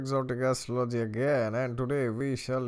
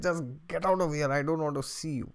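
acted angry dismissal; 4 semitones higher than usual. Acted neighbour throwing him out.

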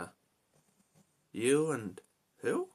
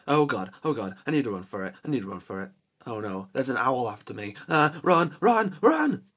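loud frantic cries to run; panicked yelling; 9 dB louder than usual. Real, not acted. Gamer fleeing a chasing owl, yelling in panic. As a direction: bolt in sheer panic.

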